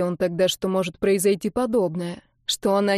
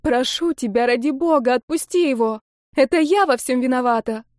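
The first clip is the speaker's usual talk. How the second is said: higher pleading, tearful; desperate begging; 4 semitones higher, 3 dB louder than usual. Acted. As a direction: plead as if all is lost. Olga keeps begging.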